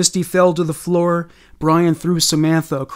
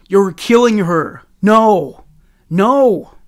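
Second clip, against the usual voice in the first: loud, raised-pitch desperate cries; screamed; 4 semitones higher, 5 dB louder, slower than usual. A narrator's reading. Samantha trying to stop Brian killing Misty, screaming. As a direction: cry out in alarm, building on each "No". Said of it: "Samantha screamed".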